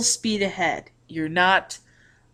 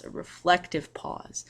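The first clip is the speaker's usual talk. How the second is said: soft reflective; 7 dB quieter than usual. Shown as a demonstration. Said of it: "almost like a reflective pause".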